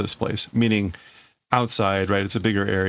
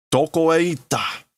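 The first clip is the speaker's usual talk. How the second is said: searching call; 7 semitones higher than usual. Acted. Tetsuo hunting Kaneda in the ruins, demanding call.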